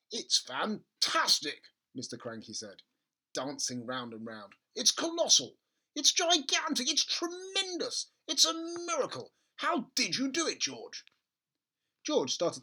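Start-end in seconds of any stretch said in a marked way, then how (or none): 0.1-1.6 slow, drawn-out wonder; father marvelling at the hen; thrilled. Acted. Father thrilled, dancing round. 4.7-11.0 high, louder, rising excitement; father raving at the giant hen; ecstatic. Acted.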